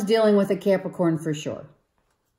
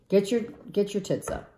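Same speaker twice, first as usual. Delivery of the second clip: a quicker, quieter take on the film's line; movie quote, repeated; 3 semitones higher, 5 dB quieter, faster than usual. Retold or imitated. Repeating the Bad Moms line to rouse the listener, quick and a touch quieter. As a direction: toss it off fast as a cheeky quote. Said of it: "saying it like it said it in the movie".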